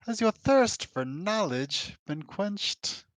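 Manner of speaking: slow, lofty creature voice; Quattro voice. Acted. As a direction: draw out the question slowly. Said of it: "I hate my voices right now".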